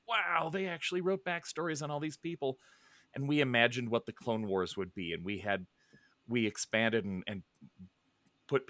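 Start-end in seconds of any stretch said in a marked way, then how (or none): 0.1-2.6 retold amazement. Retelling teenage amazement at sourcebooks.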